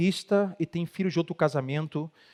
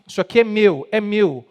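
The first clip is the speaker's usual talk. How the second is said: possessive claim; 3 semitones higher, 7 dB louder than usual. Retold or imitated. Dominant spouse claims possessions.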